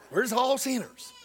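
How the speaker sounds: high, garbled mock-Southern twang; real Southern voice. Preacher repeating the religious people's line, mock Southern accent. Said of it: "change the vowels and mix up consonants".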